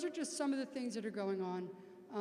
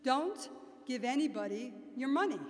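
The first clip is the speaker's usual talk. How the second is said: loud, deliberate Queens accent; 5 dB louder than usual. Shown as a demonstration. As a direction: lay down the warning in broad Queens. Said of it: "say it in my best Queens accent".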